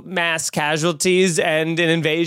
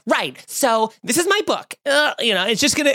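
lightly higher scatterbrained author voice; mock a pop singer; 5 semitones higher than usual. Imagined opening of the tell-all, light mock author voice. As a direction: lightly put on a rambling author, pitched up. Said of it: "her whole book's gonna be like".

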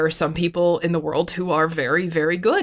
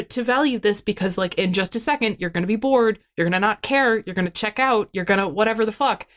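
a lightly raised, pushy self-coaching voice; scolding inner voice; 4 semitones higher than usual. Retold or imitated. Talking to herself on vacation, a mild self-lecture. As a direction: nag yourself to enjoy the moment, half mocking. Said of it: "an internal conversation with myself about".

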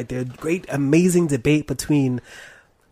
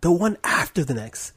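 dramatic suspense. Acted. Dramatic teaser.

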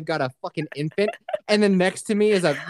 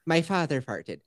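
Irish accent; 3 semitones lower, 4 dB quieter than usual. Shown as a demonstration. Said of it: "to trigger the Irish accent".

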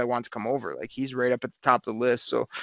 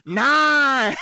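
high, loud wrestling referee count; 11 semitones higher, 3 dB louder than usual. Retold or imitated. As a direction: count it out like a WWE ref. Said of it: "doing a referee count".

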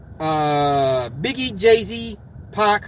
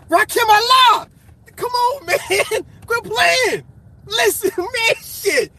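hyped up; slower than usual. Real, not acted. Vlogger to viewers, hyped shout defending a rapper. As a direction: shout his name like a hero's entrance. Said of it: "I'm getting too hyped".

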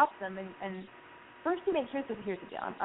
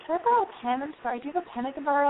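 higher and fast, tumbling apology; mock flustered plea; 6 semitones higher, faster than usual. Girl asking the cute guy for a pen, high, fast and flustered. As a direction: rush it out like you're embarrassed. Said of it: "And then you go".

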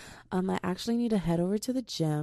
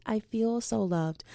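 touched; 3 semitones higher, slower than usual. Real, not acted. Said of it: "I just feel so loved".

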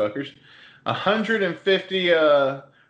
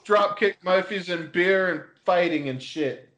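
put-on Boston accent; 4 semitones higher than usual. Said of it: "Canada by way of Boston".

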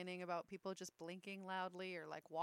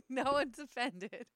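underwater; 4 semitones higher, 10 dB louder than usual. Real, not acted. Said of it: "you sound like you're underwater".

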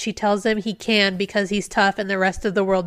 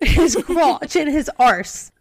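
slow, higher mock recital; mocking put-on voice; 5 semitones higher, 3 dB louder, slower than usual. Reader joins the joke about the crotch, mocking put-on voice. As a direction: draw it out in a silly put-on voice. Joking echo of the book's wording.

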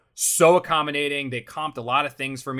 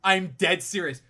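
laughing; 3 semitones higher, much slower than usual. Real, not acted. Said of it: "I am not lying".

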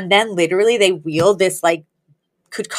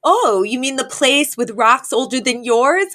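lifted high, a fussy socialite's retelling; a socialite rehashing a spat, high and theatrical; high dramatic Cece; 5 semitones higher, slower than usual. Retold or imitated. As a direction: play Cece recounting the insult, pitched up. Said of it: "And she goes".

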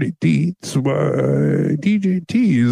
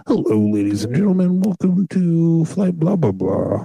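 pilot announcement; 3 semitones higher than usual. Acted. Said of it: "I wanna do a whole show as a captain".

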